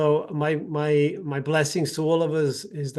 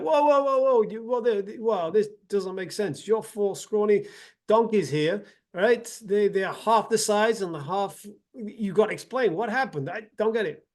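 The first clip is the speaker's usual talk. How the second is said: high, excited mock astonishment; pitched-up retold amazement; stunned disbelief; 5 semitones higher than usual. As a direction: sputter like you can't believe your eyes. Rich man stunned by the donkeys.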